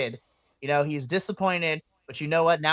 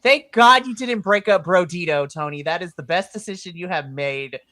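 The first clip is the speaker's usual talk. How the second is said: thrilled fan thanking Tony; excited relief; 6 dB louder than usual. Retold or imitated. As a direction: gush with relief at the boss. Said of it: "I'm like".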